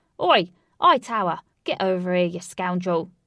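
put-on very loud, cheeky, brash Cockney accent. Ajax spots a tall bureaucrat across the room and calls him over: loud cockney voice. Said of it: "talking loud Cockney and giving people playful nicknames. / He mingled around large crowds, talking loud Cockney and giving people playful nicknames. / said someone, / talking loud Cockney and giving p".

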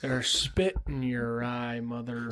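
very slow, slurred drawl, each word dragged out. Joking about a slurring slow voice, doing John Wayne impression. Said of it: "Was it like John Wayne?".

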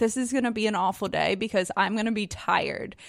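normal talking voice

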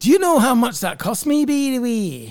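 put-on Scottish accent. Speaker tries the Scottish accent again for a listener, put-on Scottish accent. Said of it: "That was my Scottish accent".

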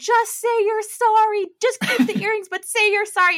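very high, screamed delivery. Recapping a show, acting out the women screaming at her. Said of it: "The women are screaming at her like".

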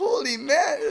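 frantic, wild, shrill voice, pitched very high. Retelling what she shouted after the first guy went in: imitating someone going nuts. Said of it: "she was going nuts".

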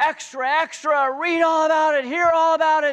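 very loud, shrill, very high street-vendor cry. Describing the movie cliché of newspaper vendors, imitating a shouting newspaper vendor. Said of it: "newspaper vendors, you know, shouting out".

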